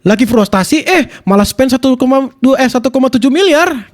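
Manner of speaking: lightly punched short-video narration; voice-over demo. Shown as a demonstration. Streamer showing viewers a clipper script, voice-over demo. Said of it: "Contoh voice over gini nih".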